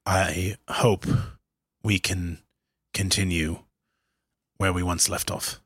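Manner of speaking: statesman voice. Acted. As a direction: address the crowd like a statesman. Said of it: "in my best statesman voice".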